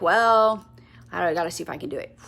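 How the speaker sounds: quick, low, mumbled doubt; unenthusiastic. Shown as a demonstration. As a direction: sound unsure and uninterested. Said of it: "You see the enthusiasm?".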